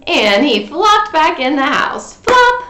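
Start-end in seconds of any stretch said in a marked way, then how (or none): 2.1-2.6 high, loud "Flop"; flop sound. A narrator's reading. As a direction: bounce it. Sound effect.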